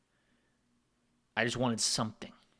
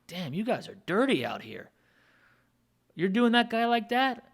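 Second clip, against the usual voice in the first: outraged disbelief; 9 semitones higher than usual. Retold or imitated. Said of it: "And I'm like".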